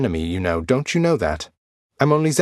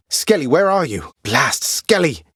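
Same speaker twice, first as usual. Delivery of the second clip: calling out; 7 semitones higher, 3 dB louder than usual. Acted. Calling for missing Skelly.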